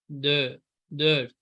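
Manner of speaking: दर्द said slowly, rounded vowel, final t; teacher slowly modelling दर्द; slow demo dört. Shown as a demonstration. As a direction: stretch out दर्द.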